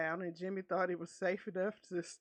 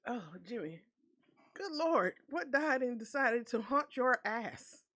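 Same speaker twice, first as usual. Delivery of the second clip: exclaiming in disgust; 4 semitones higher, 4 dB louder than usual. Real, not acted. Narrator exclaims over smell.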